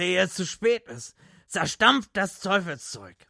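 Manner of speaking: high, loud doom proclamation; proclaiming. Acted. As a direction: proclaim it like a prophet. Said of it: "verkündete Gatlin".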